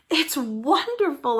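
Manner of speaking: high, slow, delighted exclaim; a child crying out with delight at the tree; excited cry. Acted. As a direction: gasp it out in wonder. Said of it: "I cried".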